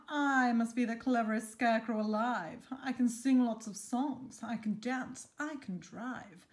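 loud, bragging scarecrow; lightly voiced cocky show-off; boastful Reginald.

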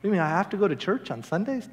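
mock reluctance, ending on a rise; reluctant question. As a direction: question it like a chore. Acted reluctant question, then corrected.

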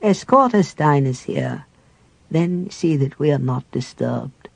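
put-on kindly old cleric welcoming his guest; lightly voiced frail elder. Cleric giving orders.

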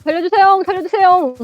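mock pleading. Pinned down in game, begging.

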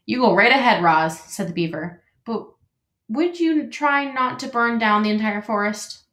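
chatty, welcoming beaver; friendly beaver voice. Acted.

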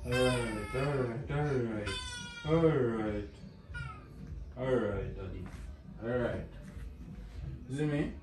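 real, gentle repeated hushing reassurance. Real, not acted. Father soothing his crying baby.

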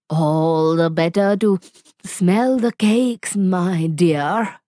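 sniffing wolf. Acted. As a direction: sniff the air greedily as you say it. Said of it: "sniffed the wolf".

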